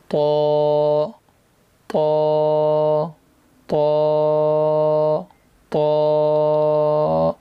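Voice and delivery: تو said thick and full; heavy toa. Shown as a demonstration. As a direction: make تو heavy. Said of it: "اس کو بھی موٹا پڑھیں گے". (تو موٹا پڑھیں)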